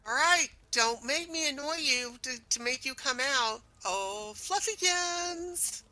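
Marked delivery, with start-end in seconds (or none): 3.9-5.8 coaxing call. Acted. Coaxing call with pet name.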